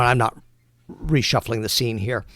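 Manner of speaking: normal talking voice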